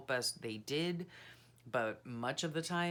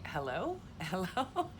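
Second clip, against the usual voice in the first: lightly imitated British accent, pitched up; higher, lilting British "hello?" with a rise; 6 semitones higher than usual. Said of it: "beautiful British accent saying".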